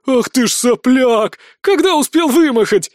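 delighted shout. A narrator's reading. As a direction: shout it with fond amazement. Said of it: "кричит Вибисида".

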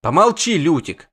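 high, loud order to shut up; shout. Acted. Dzhar yells at the bard to hush, loud and high. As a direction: bark it loud at him. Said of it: "крикнул Даригарай".

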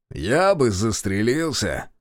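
slow, scornful; snorted. Acted. Reshetov scoffing at the prisoner's story, slow and scornful. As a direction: toss it off with contempt. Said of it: "фыркнул Решетов".

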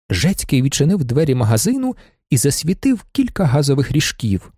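ordinary delivery

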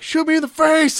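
high excited shout. Retold or imitated. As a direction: yell it out high. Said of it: "he's like".

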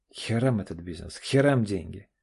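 bitter, forceful words thrown out in frustration; heated outburst. Acted. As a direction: spit it out in a fit of temper. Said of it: "в сердцах произнёс Олег". (в сердцах, с горечью)

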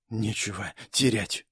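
very soft, low whispered incantation; woman whispering her spell before rising. Acted. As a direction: breathe the spell under the breath. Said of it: "прошептала она своё заклинание".

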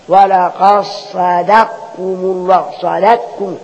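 slow, stretched recitation, صدقكم as sadakkum; qaf becomes kaf. Shown as a demonstration. Teacher showing it becomes a kaf, صدقكم slowly as sadakkum. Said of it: "تبقى كاف يعني".

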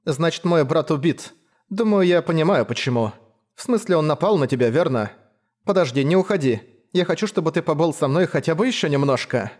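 put-on young woman voice. Leila grieves, then begs.

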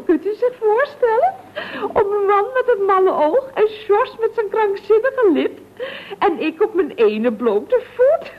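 tearful, voice catching as she complains; crying. Acted. Woman sobbing to Mr Biels about her morning. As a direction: weep through the story of the mad eye and bare foot.

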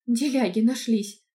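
loud, slow scornful jab; angry jab. Acted. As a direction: spit it out in anger. Angry heroine continues. (сердито)

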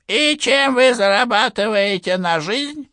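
put-on high, stern old general asking. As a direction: interrogate him like a strict old officer. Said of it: "спросил он". (строгий голос генерал-майора)

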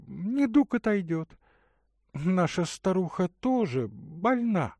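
put-on a caring young woman offering water; Katerina's voice.

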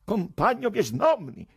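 high, furious tirade; enraged, escalating scolding; teeth-grinding anger. A narrator's reading. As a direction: berate them high-pitched through gritted teeth. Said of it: "digrignando i denti".

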